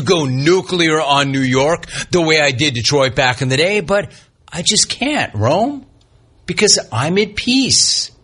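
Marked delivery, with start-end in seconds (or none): 3.8-8.1 mock serene. Host mock-serene about rivalry.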